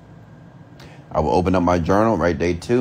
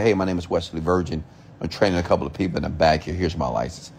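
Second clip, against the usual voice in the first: with authority; 6 semitones lower than usual. Retold or imitated. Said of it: "that's how I was speaking, just like that, with authority".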